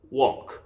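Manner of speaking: "walk" with open aw from the back of the throat, silent L; throat-back vowel. Shown as a demonstration. Teacher models walk for learners, vowel from the throat. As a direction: say "walk" as "wawk", no L. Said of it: "여기서 소리가 나야 돼요".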